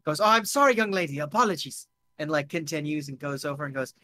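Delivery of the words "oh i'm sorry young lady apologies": put-on hurried apology in a light German-French accent; flustered newcomer with a German-French lilt. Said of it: "he's switching between German and French".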